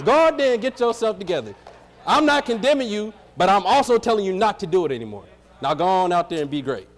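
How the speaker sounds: mock casual Jesus talking like young people; slangy Jesus. Pastor voicing Jesus for the young folks, lightly slangy. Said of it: "I gotta talk how they talk".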